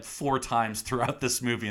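ordinary delivery

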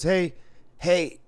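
put-on high, chummy drunk call; drunk gambler voice. Drunk player calling to the other dealer, high mock voice. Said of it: "he goes".

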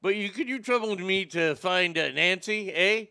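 lightly put-on Canadian accent, polite and apologetic; a mild mock Canadian asking nicely, eh. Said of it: "in proper Canadian".

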